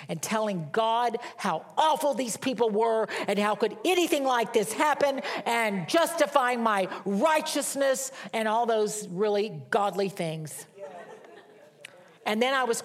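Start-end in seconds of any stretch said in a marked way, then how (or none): 1.4-10.7 indignant retelling. Retold or imitated. Retelling her complaint to God.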